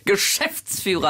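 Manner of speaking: langsam, Geschäftsführer mit Nachdruck auf Geschäft; Betonung auf Geschäft. Shown as a demonstration. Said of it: "Betonung auf Geschäft". (Geschäftsführer, langsam, Druck auf Geschäft)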